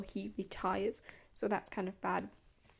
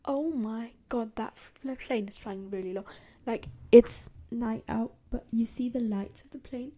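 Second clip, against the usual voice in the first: suddenly alarmed mid-sentence; startled; 7 dB louder than usual. Real, not acted. Startled by low flying plane.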